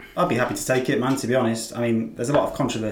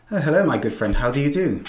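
mock-formal greeting, pitched a bit higher; lightly hammed-up textbook politeness; textbook English; 4 semitones higher, 4 dB louder than usual. Mocking how books teach greetings to a friend, mock-formal. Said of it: "that's how they teach people in the books".

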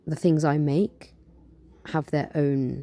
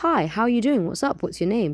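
lightly voiced breezy genie; a hint of a chatty genie; 6 semitones higher, 4 dB louder than usual. Genie greets the girl.

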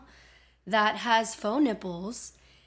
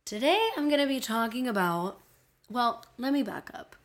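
light Miami accent creeping in. Real, not acted. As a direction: speak with a slight Miami accent. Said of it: "my Miami accent's really out right now".

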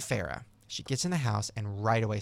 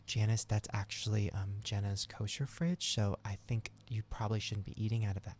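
softer, lower, careful request; very polite; 3 semitones lower, 5 dB quieter than usual. Retold or imitated. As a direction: imitate someone tactfully pointing out a problem. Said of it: "very politely and goes".

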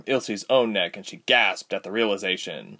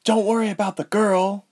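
through gritted teeth; 12 semitones higher, 4 dB louder than usual. A narrator's reading. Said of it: "Ilse said through gritted teeth".

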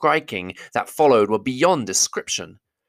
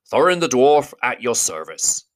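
higher, loud, polite dwarf; Thorin's voice; 5 semitones higher, 4 dB louder than usual. Acted. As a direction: greet him with stiff politeness.

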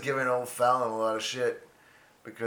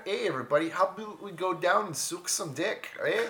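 high, sing-song mock-Canadian hoser; Canadian accent; 6 semitones higher than usual. Hoser rallying everybody in a high Canadian accent. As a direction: cheerily propose it in a silly Canadian accent. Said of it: "Let out the inner Canadian".

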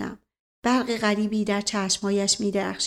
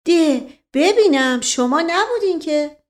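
higher, louder, drawn-out challenge; sudden cry; 7 semitones higher, 6 dB louder than usual. A narrator's reading. Woman suddenly challenging a silent guest, crying out. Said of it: "ناگهان فریاد زد".

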